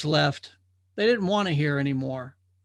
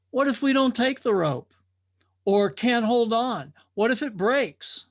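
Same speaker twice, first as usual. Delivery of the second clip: anxious drifter; 6 semitones higher, 3 dB louder than usual. Acted. Worried drifter doubts the rope.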